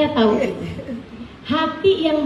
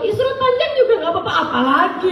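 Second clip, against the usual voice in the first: laughing; 6 semitones higher than usual. Retold or imitated. Quoting her own cheerful reply.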